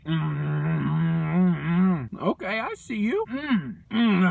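chewing between words; muffled eating sounds; mouth full of food. Real, not acted. Seen 0: Bites at -5, keeps chewing while speaking through about 2 s.

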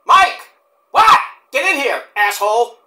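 high loud call across the room; mock shouting for a friend. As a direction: yell for Mike to come in. Calling out to Mike.

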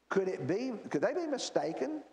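ordinary talk

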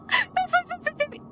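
high, wheezy laugh through the words; words lost in real giggles. Real, not acted. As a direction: squeak it out while laughing. Cracking up at the game.

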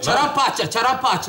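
Çaramparça as a mangled paramparça; backwards speech. Pretend. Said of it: "Paramparça etti lan".

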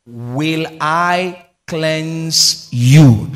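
loud, drawn-out roar; preaching at full force. Real, not acted. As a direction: stretch every word as you thunder. Preacher bellows scripture.

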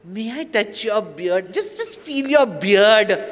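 lightly voiced child asking; childlike asking. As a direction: ask slowly like a shy child. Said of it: "she says".

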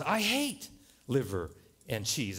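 slow, lightly put-on German accent. Doberman answers the collie, grumbled mock German accent. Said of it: "in kind of a German accent".

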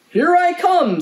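high, loud storybook horse; hearty Missus Horse. A narrator's reading. Horse volunteers to tuck the lamb in, hearty. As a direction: call it out high and eager. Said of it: "said Missus Horse".

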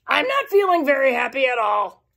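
a mopey, down voice; glum Kansas. Acted. Kansas telling us how he feels, glum and mopey. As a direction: sulk through it like a bored kid. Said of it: "Because he said".

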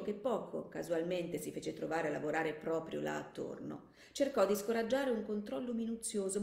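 measured audiobook narration; composed narrator, phrase by phrase; story narration. A narrator's reading. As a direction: read the story aloud with care.

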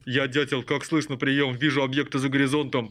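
radio operator voice; over walkie talkie. Pretend. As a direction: play a pilot calling the tower. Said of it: "Пш, приём, приём. Я дятел".

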